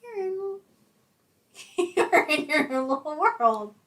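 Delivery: slow, high, sing-song fairy menace; evil fairy voice. Acted. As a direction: croon it like a wicked fairy. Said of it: "Why did you sound like an evil fairy?".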